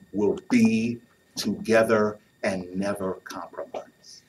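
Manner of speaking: softly whispered vow; a solemn whispered promise; hushed. Acted. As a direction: let it drop to a whisper, slowly.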